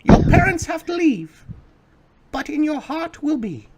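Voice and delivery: very high falsetto farewell; sing-song falsetto goodbye; mother voice. Acted.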